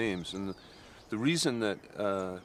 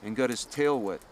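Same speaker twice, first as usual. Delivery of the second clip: higher-pitched, deliberate storyteller's voice; myth storytelling; 6 semitones higher than usual. Acted. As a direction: tell it like an old legend, phrase by phrase. Tells a myth aloud.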